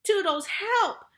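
loud, high, drawn-out call; high-pitched plea for help; cry for help. A narrator's reading. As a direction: cry out slowly and urgently for rescue. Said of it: "Wendy cried".

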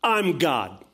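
loud, high, commanding rebuttal; booming divine authority, emphatic; God. Acted. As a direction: preach it as the Almighty putting a doubter straight. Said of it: "And his response is".

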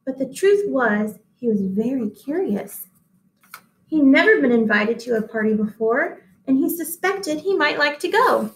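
put-on gentle read-aloud to children; story reading. A narrator's reading. Teacher reading a picture book to her class, in a gentle storybook voice.

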